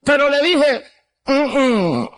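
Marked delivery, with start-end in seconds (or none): 1.2-2.1 muffled "mm, mm" refusal; wordless refusal. Retold or imitated. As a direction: imitate being unable to speak, humming no. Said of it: "ya yo no podía hablar". (negativa muda, con la boca cerrada)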